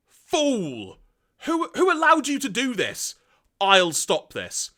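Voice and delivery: high, loud enraged villain; furious shout. Acted. Galvatron berating Zarak, high furious shout. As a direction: rage at the fool who did this.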